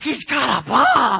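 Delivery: very loud, drawn-out stage whisper. Retelling an old lady's warning during a talk: imitating Dee's loud whisper. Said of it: "I hear her whisper".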